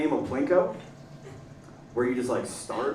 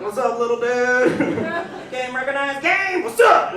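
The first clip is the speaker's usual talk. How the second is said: put-on excited kid voice; 8 semitones higher, 5 dB louder than usual. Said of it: "And he's like".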